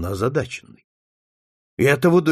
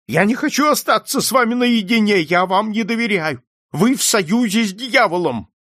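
high, loud, distrustful refusal; agitated old man; 9 semitones higher, 5 dB louder than usual. A narrator's reading. Old man distrusts detective, high and agitated. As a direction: accuse him in a raised, high voice.

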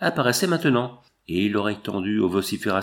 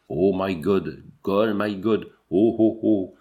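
agonized moaning; 3 semitones lower, slower than usual. Acted. Dying man moaning in cabin.

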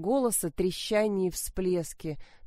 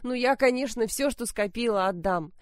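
louder, higher angry yelling; shouting; 5 semitones higher, 3 dB louder than usual. Acted. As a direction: yell it at your daughter. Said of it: "Мать заорала".

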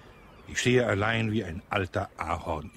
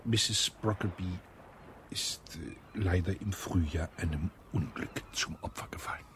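mournful hush; 6 dB quieter than usual. Acted. Colonel tells of dead wife.

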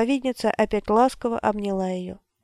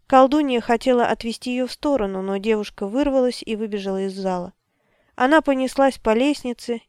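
ordinary talk

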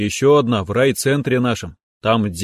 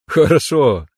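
higher, lightly amused approval; chuckled approval; 4 semitones higher, 3 dB louder, slower than usual. A narrator's reading. Father-in-law echoing his daughter's remark, mildly chuckling. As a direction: echo it with a touch of amusement. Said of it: "хохотнул Александр Иванович".

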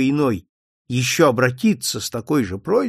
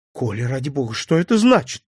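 frightened woman. Acted. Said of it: "испуганный женский голос".

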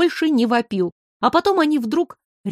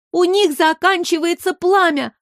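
high, anxious shout; girl calling out anxiously; worried cry; 7 semitones higher than usual. A narrator's reading. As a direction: call out in alarm. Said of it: "обеспокоенно крикнула Оля".

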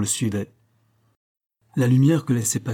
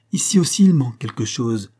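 mild call across the rooms; 4 dB louder than usual. Acted. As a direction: raise the voice a little to alert the others. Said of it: "cria le maître d'hôtel".

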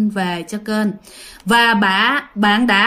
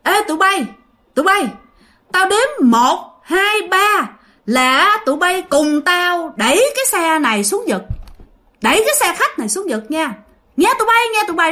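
high eerie ghost voice; 6 semitones higher than usual. Acted. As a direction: lure the other spirits in, eerie and high. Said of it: "Ổng nghe nói vậy nè".

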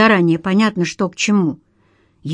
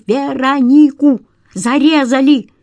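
slow, loud, higher cry of Веронику; drawn-out shout; 5 semitones higher, 5 dB louder than usual. A narrator's reading. The caller repeating the victim's name to the detective, slow wailing shout.

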